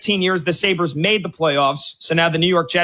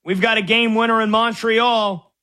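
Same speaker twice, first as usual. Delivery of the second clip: raised, eager breaking-news call; excited; 4 semitones higher than usual. Real, not acted. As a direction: announce the winner with a lift. Breaking news of game winner.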